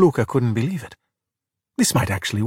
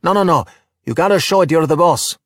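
insistent, louder and higher; bossy, raised-voice instruction; urgent coaching; 5 semitones higher, 4 dB louder than usual. A narrator's reading. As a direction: press the point, emphatic. Boy coaching rider urgently.

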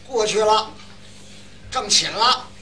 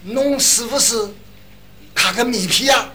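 slow, louder Shanghainese question; Shanghai accent; 3 semitones higher, 4 dB louder than usual. Retold or imitated. 上海服务员慢慢地用上海话反问. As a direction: draw it out like a Shanghai waiter. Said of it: "他反问我一句".

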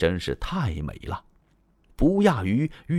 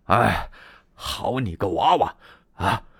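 furious. Acted. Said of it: "把董卓给气的".

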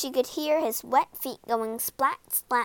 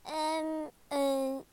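soft, hesitant, higher voice; nervous maid; 5 semitones higher, 5 dB quieter than usual. A narrator's reading. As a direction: hesitate nervously before answering. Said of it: "the maid began nervously".

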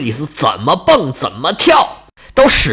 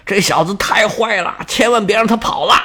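river god calling out; 4 semitones higher than usual. Acted. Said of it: "大声呼喊说".

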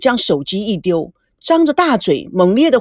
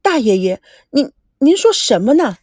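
pleading grandson; 2 semitones lower than usual. Acted. Grandson protests to his great-uncle, pleading. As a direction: push back in alarm.

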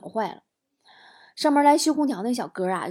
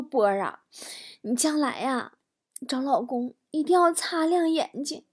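mock-tearful, raised plaintive voice; 5 semitones higher, 3 dB quieter than usual. Injured aunt warns young relative about choosing husbands, mock-tearful. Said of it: "哭着跟我说".

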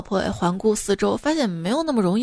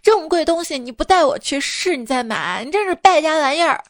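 angry wife scolding; 3 semitones higher than usual. Acted. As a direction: nag him harder and harder. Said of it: "他老婆特别生气啊".

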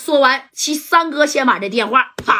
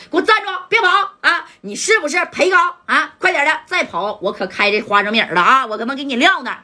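shouting; 4 semitones higher than usual. Acted. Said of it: "那家就喊了".

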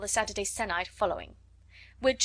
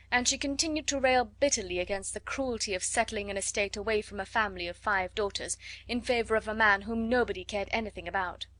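usual speaking voice

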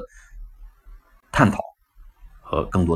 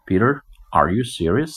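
stern warning; 3 semitones higher than usual. Acted. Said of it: "很认真地看着你".

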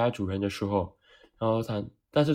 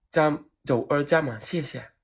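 suave order; 3 semitones higher than usual. Retold or imitated. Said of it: "很潇洒地".

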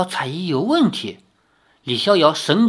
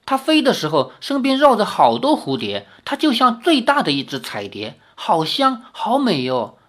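put-on animated child; 5 semitones higher than usual. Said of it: "孩童眉飞色舞地说".

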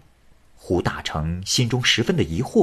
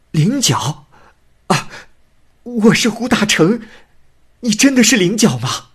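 higher and louder, overjoyed; weeping for joy; 11 semitones higher, 5 dB louder than usual. A narrator's reading. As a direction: cry out her name in disbelieving joy. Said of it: "喜极而泣".

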